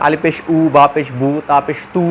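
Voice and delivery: "উ", "বু", "তু" each ending on a u sound; short-u demonstration. Shown as a demonstration. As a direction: recite "আলিফ পেশ উ" low and even, landing on u. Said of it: "রস্যকারের মতো উচ্চারণ হবে".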